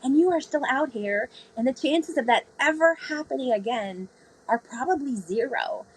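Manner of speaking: a hint of the calm old sailor talking her down; reassuring mentor. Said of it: "He goes".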